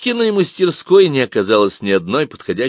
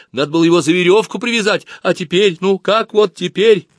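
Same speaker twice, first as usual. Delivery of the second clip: whining; 9 semitones higher, 5 dB louder than usual. Acted. Galka continues whining.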